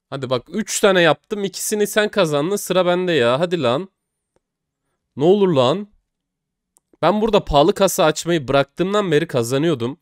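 urging the case to pay out; agitated pleading. Real, not acted. Vlogger begging the case battle to turn, loud and tense.

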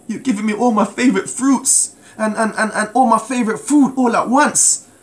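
tearful prayer. Retold or imitated. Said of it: "I just kept crying".

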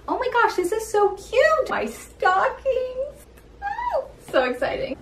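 high, thrilled squeal over stockings; excited squeal. Real, not acted. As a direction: gush with high-pitched delight. Opening Christmas bins, delighted.

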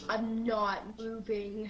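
slow whisper; hushed. Retold or imitated. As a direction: whisper it slowly, keeping still. Retelling a hummingbird sighting, keeping still.

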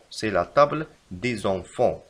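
slow, even reread; slow repeat. Shown as a demonstration. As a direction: repeat it slowly. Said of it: "يجب كتابة".

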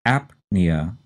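slow "apnea", AP split from nea; stress on first syllable. Shown as a demonstration. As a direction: say "apnea" as AP-nee-uh, P sounded. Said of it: "the stress is in the first syllable".

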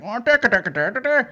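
high, loud sing-song mockery; high, loud mock Dublin taunt; mock southern accent. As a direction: parody their taunting babble. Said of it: "they're like".

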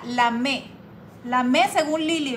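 Lamé with the stress on the final E, la-MÉ; lamé, la-MÉ, accent on the last syllable. Shown as a demonstration. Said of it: "con acento en la E".

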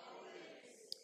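a sudden breathy whisper. Acted. Preacher answers his own question to the congregation in a whisper. Answer to "how many times.

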